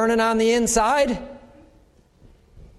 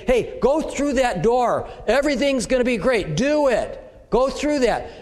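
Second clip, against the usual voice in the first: inner voice; 5 semitones higher than usual. Retold or imitated. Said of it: "you hear a voice in your head saying".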